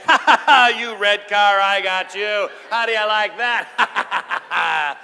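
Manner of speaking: loud, high mock-triumphant crow, drawn out at the end; gloating dad. Dad on road trip passing red car, loud gloating. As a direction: gloat over the car you just passed.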